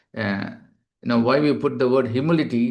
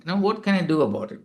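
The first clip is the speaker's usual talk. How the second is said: higher, quick, exasperated staff reply; defensive; 5 semitones higher, faster than usual. Retold or imitated. Receptionist snapping back defensively at a waiting patient, higher and quicker. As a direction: brush off the complaint, raised and hurried. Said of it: "That is being defensive".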